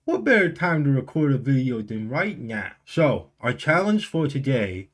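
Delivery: talking with a numb mouth after the dentist; slurring through a numb tongue and cheek. Real, not acted. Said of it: "as you might be able to tell, I just got back from the dentist".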